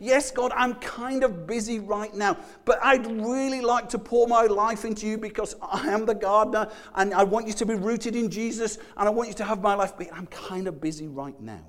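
mock distracted believer. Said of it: "and you say".

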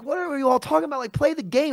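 high-pitched retold exasperation; mock exasperation. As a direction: exclaim in disbelief at squabbling teammates. Retold exasperation at squabbling teammates.

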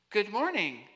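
flat robot voice, first try. Pretend. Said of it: "I'm trying to get the robot voice right".

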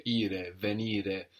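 "ire, venire" slowly, stressed on the I of -IRE. Shown as a demonstration. Teacher lists infinitive endings for a student, stress on -IRE in "ire, venire". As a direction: lean on the NI in "venire". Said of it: "we have the accent on the".

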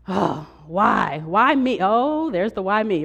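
hammed-up whining about why me; mock self-pity. Pastor mimicking a complainer's moaning, mock self-pity. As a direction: play a moping complainer, half joking. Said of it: "what I'm speaking perpetually and continuously is".

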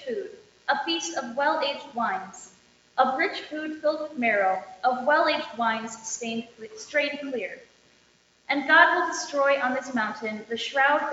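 measured formal reading of Isaiah; scripture reading. Acted. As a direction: lector proclaiming the Old Testament lesson. Lector reads Isaiah aloud.

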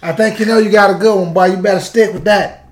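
lightly voiced old-school cat. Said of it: "like the old school cats say".

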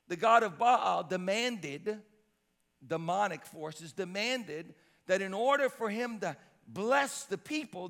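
measured preaching with punched words; emphatic preaching. Real, not acted. Preacher warning the congregation of Baal's demands, emphatic preaching. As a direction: press each point from the pulpit.

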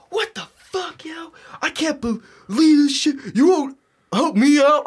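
high-pitched mock outrage; indignant outburst. Brother refuses to believe he won't get help, indignant. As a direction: complain in a high, incredulous voice. Retold quarrel, brother fuming at him.

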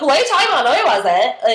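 put-on slurry, high drunk denial. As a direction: play it tipsy and defensive. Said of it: "in my, like, drunk voice".

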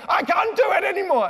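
high, loud mock despair; loud, high hammed-up despair; exasperated cry. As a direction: wail it like a worn-out writer. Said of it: "and you go".

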